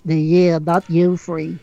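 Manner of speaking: mock voice. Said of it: "Was that a bit of aid for you?".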